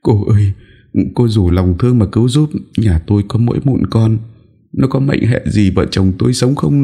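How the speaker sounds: high, pleading mother's voice; tearful high-pitched entreaty; desperate begging. Acted. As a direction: plead as if your child's life hangs on it. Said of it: "Người mẹ vội vã van nài".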